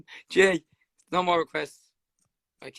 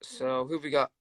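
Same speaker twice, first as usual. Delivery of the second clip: whispering; 4 semitones lower than usual. Real, not acted. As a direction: whisper to yourself. Waiting for next caller.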